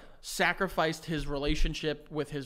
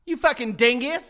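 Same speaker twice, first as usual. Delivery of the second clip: put-on Southern accent; 7 semitones higher, 6 dB louder than usual. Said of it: "if you say it with a Southern accent".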